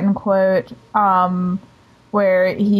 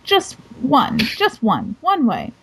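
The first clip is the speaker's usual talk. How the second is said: mock indignant Rimmer; 4 semitones higher than usual. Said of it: "how he says it".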